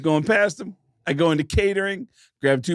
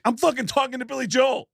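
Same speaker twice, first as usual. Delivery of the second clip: higher-pitched starstruck excitement; retold excitement; 5 semitones higher than usual. Fan retelling meeting a famous singer, excited. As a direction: relive being giddy at meeting your idol. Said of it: "I got so excited that I met him".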